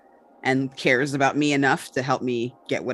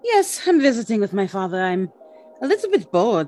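put-on high, sweet little-girl voice; Tula's sweet voice; 4 semitones higher than usual. Young woman sweet-talking a family friend, high and sweet. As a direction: charm them like an innocent little girl.

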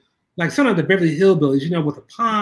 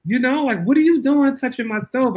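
a hint of a furious boss over her stove; scolding; 5 semitones higher than usual. Boss scolding assistant for cleaning her stove, mock anger. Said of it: "She went off".

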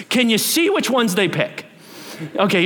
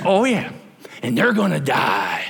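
put-on Southern accent; 4 semitones lower than usual. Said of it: "Big Southern accent".

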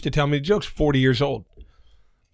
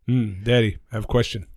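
stilted question in a lightly put-on Native American accent; measured, mock Native American accent; slower than usual. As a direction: joke child in a stereotyped Native American accent. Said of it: "Sorry about the accent".

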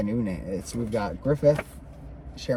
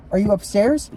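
louder, higher question; calling out; 9 semitones higher, 7 dB louder than usual. A narrator's reading. Guide checks who is upstairs, calling out. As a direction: call it up the stairs, lightly acted. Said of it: "She called out".

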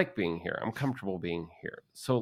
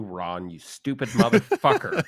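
angry; 4 semitones higher, 8 dB louder, slower than usual. Real, not acted. Cursing out boss Ron.

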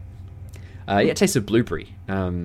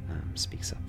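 normal talking voice

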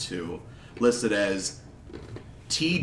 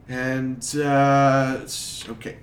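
clerk. Acted. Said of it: "and he says".

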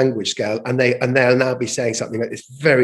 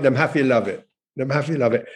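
lightly Jamaican patois phrasing. Shown as a demonstration. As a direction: say "Them happy love it" with a hint of Jamaican patois. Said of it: "attempts to speak patois".

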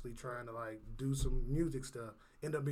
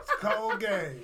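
slow, louder, laughing it out; 4 semitones higher, 8 dB louder, much slower than usual. Real, not acted. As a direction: chuckle the words out slowly. Laughing at the shared joke.

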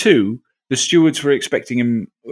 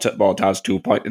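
slow robot monotone; half-started robot voice; 5 semitones lower, slower than usual. Pretend. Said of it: "No, I'm not gonna do that".

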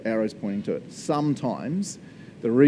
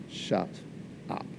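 awed shut up; 6 semitones lower, 11 dB quieter than usual. Real, not acted. Amazed reaction to quote.

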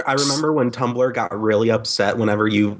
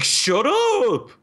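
higher mock defensive snap; snapping shut up; 10 semitones higher than usual. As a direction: bark it like an embarrassed kid. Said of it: "he's like".

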